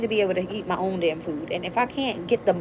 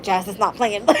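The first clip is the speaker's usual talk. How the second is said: laughing through quote; 3 dB louder than usual. Retold or imitated. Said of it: "Spirit's like".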